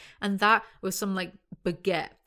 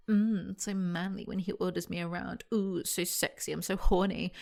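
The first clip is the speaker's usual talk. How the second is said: mock swooning. Sarcastic swooning at bossy hero.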